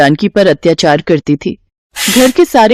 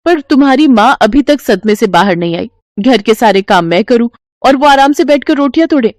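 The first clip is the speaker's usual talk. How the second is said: higher, complaining daughter-in-law voice; nagging wife; 4 semitones higher than usual. Acted. Wife pressing her husband to send his mother away, higher and irritated. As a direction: whine and push to get rid of her.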